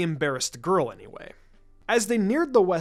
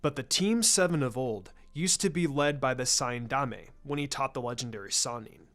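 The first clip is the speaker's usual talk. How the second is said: put-on a lower, measured older man's voice; a hint of a knowing elder; lightly voiced clan leader; 5 semitones lower, 4 dB quieter than usual. Shikaku continues his story.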